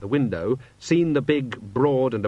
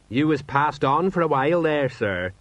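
higher-pitched, eager subordinate; helpful sergeant; 5 semitones higher than usual. A narrator's reading. Sergeant filling in his dazed commander, helpfully. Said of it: "said Sergeant Colon helpfully".

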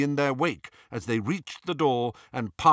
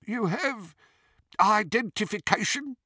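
high-pitched goblin teller; 11 semitones higher than usual. A narrator's reading. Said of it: "asked the goblin".

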